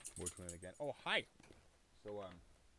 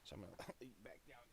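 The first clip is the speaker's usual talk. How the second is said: soft pet talk; 4 semitones higher, 13 dB quieter, faster than usual. Real, not acted. Setting dog down gently.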